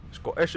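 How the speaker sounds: "Scottish" with the T swallowed into a catch; Scottish glottal catch. Shown as a demonstration. Streamer showing what they nail, "Scottish" with a glottal catch. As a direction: say "Scottish" slowly, a throat catch replacing the T. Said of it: "the only thing that I nail from Scottish".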